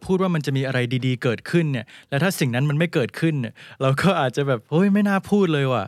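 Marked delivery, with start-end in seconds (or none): 4.7-5.8 regretful outburst. Retold or imitated. Regretful exclamation in example.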